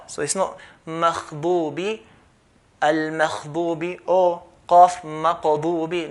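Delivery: مغضوب with the ghain turned into kha or qaf; wrong kha and qaf. Shown as a demonstration. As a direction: mispronounce the ghain. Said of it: "do not change the ghain into a kha".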